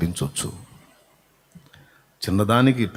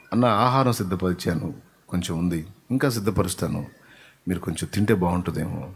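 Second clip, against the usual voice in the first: softer, gentle, courteous offer of food; polite offer; 4 semitones lower, 5 dB quieter than usual. Retold or imitated. Host politely offering food to a visiting pastor, softly. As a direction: coax a guest softly with politeness. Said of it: "అనకుండా".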